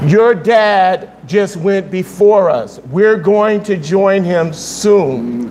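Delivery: slow, measured, gently explaining; quiet reassurance. Retold or imitated. Mother sitting her crying son down, slow quiet reassurance. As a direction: soothe a child, drawing each phrase out slowly. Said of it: "she sat him down quietly".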